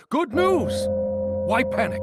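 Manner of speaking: forced cheer. Acted. Calming the crowd with the Black Gold, forced cheer. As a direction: sell the good news hard.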